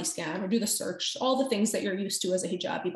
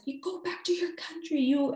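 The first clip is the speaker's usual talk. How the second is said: angry man's insult; 8 semitones higher than usual. Retold or imitated. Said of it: "And he said".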